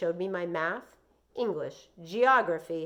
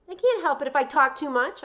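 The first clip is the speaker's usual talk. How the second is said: Joey; 8 semitones higher, 10 dB louder than usual. Acted. Joey pleads, voiced high.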